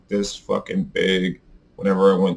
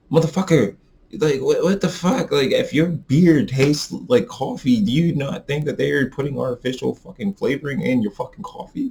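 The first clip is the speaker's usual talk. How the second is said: higher-pitched, worked-up rant; exasperated rant; 5 semitones higher than usual. Real, not acted. Vaper firing back at people who complain about artificial flavor, exasperated.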